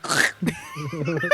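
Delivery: very high, slow, cutesy squeak; furry femboy voice. Pretend. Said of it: "I'm going to act like a".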